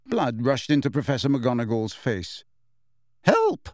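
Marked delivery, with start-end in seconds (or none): 3.2-3.7 very high, strangled echo; tight-throated, incredulous squeak; constricted voice. A narrator's reading. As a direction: choke out the word in disbelief. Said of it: "she repeated in a constricted voice".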